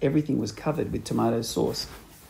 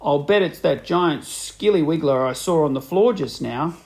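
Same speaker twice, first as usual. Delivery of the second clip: put-on sly old man; 3 dB louder than usual. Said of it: "Mister Twit said".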